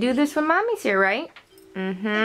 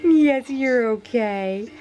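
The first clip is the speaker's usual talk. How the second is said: slow soothing coo; 3 semitones higher, much slower than usual. Real, not acted. Soothing baby.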